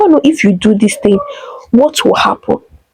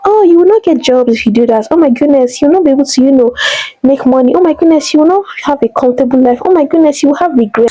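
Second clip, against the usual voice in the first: higher, quick mock doom with oh my goodness peaking; mocking busybodies; 4 semitones higher than usual. People warn her about biology education, higher mock doom. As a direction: parody the people warning her off. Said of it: "And they're like".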